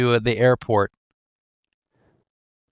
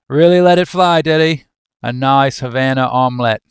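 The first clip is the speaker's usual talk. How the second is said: attempted Australian; 5 dB louder than usual. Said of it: "I can't do Australian".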